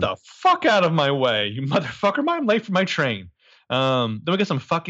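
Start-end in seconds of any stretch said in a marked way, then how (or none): 0.0-3.3 mildly hammed-up irate shout; mock angry commuter. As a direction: push through a crowd, half-playing angry. Acting out a pushy commuter.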